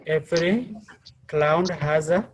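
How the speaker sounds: "Every cloud has a" with the pitch lifting at the end; rising intonation. Shown as a demonstration. Teacher showing a student the proverb's first part, rising intonation. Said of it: "said with a rising intonation".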